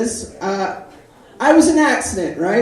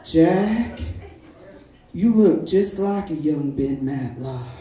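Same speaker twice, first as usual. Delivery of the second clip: mom's line; 6 semitones lower, slower than usual. Retold or imitated. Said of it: "My mom was like".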